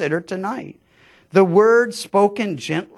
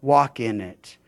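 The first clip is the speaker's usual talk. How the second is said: soft whisper-like voicing; 5 semitones lower, 5 dB quieter than usual. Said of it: "whispering in my ear".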